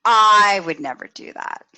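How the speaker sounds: loud, indignant refusal; loud prim denial. Shown as a demonstration. Imitating a judgmental peer, loud and indignant. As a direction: declare it to the room, scandalised. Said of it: "You can hear it in my voice".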